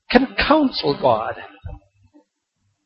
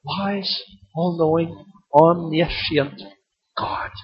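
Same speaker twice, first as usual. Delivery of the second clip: hushed awe; 8 dB quieter, slower than usual. Acted. Awed list of God's attributes.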